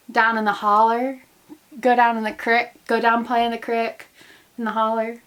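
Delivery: drawled Appalachian "holler" and "crick"; light West Virginia accent; West Virginia twang. Shown as a demonstration. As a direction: lean on the mountain twang. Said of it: "bring out that twang".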